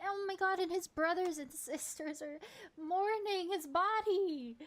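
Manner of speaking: mock grief. Streamer mock-mourning a dead critter, hammed-up sob. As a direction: wail over the little critter's bones.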